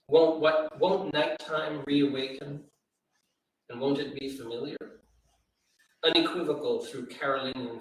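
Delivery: measured, deliberate reading of a closing stanza; poem reading. Acted. Host reading a poem's final stanza to listeners, in a measured poem-reading voice. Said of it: "the final stanza reads like this".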